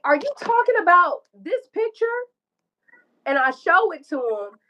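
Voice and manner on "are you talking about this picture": high, imitated crying disbelief; upset high-pitched re-enactment; retold tearful question. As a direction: act out asking through tears. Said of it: "like, I'm crying".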